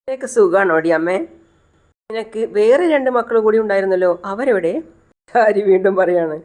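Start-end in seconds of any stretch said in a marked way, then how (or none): 0.1-4.7 raised pitch, mock-familiar questions; lightly acted nosy questioning, lifting higher; acted pert questioning. Disturbed daughter quizzing her mother about her children, pert questioning.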